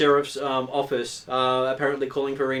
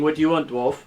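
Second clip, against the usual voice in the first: sneering pompous official. Acted. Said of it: "sneering down his nose at you".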